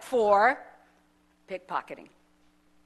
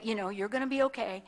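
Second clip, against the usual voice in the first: softer, quicker "you're gonna be okay" while hugging her; soft reassurance; 6 dB quieter, faster than usual. Retold or imitated. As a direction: soothe her gently as you hold her. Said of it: "kinda hugged her like".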